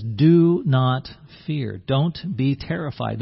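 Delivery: slow gentle. Pretend. Jesus repeats instruction.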